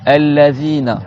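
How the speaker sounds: allazina with the tongue bitten lightly for th; careful th in allazina; interdental th in allazina. Shown as a demonstration. Teacher models allazina for pupils, demonstrating the interdental th. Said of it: "tu vas mordre ta langue".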